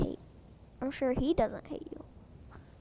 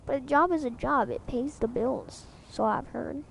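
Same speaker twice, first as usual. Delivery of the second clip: weird country voice; 4 dB louder than usual. Acted. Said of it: "Why did I do that in some weird country voice?".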